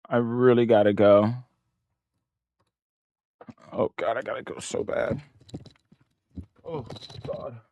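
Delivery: desperate to pee, fading away; urgently needing the toilet. Real, not acted. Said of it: "Look, I have to pee".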